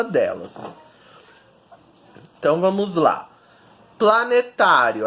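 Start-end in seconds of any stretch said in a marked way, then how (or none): 4.0-5.1 "Planetário" with TÁ brought out; stress on TÁ. Shown as a demonstration. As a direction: sound out "Planetário", leaning on TÁ. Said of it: "a sílaba tônica é o tá".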